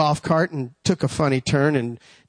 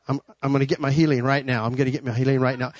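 fast, low repeated affirmation; hurried, low-pitched imitation of self-convincing; retold insistent self-talk; 3 semitones lower, faster than usual. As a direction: rattle it off like talking yourself into it. Retold self-talk claiming healing.

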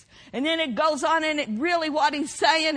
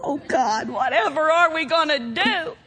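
hammed-up helpless lament; mock despair; 2 semitones higher, 5 dB louder than usual. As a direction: moan it as a pretend plea to God. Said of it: "crying out of despair".

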